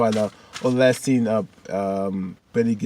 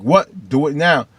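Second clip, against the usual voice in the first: loud, higher push; insisting; 5 semitones higher, 7 dB louder, slower than usual. Retold or imitated. Erica insisting her friend act now, loud. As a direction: snap an order.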